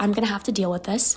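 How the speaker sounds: normal talking voice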